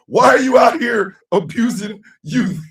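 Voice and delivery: mock award announcement. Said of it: "The category is".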